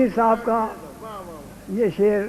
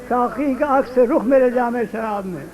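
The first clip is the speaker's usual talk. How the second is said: declaimed verse, slowing and louder on the punchline; Urdu couplet recitation; 4 semitones higher, 6 dB louder than usual. Acted. Poet delivering his opening couplet to the gathering, declaimed recitation. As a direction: build to a drawn-out second line.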